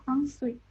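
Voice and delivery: "ensuite" as "ahn-swit"; French-style "ensuite", silent final E; correct French reading. Shown as a demonstration. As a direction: say "ensuite" with UI as a quick "wi". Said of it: "kita bacanya jadi wi".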